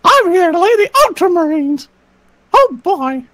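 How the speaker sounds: lightly voiced cartoon mouse; a hint of Mickey, cheerful catchphrase. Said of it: "I love doing that guy as a Mickey".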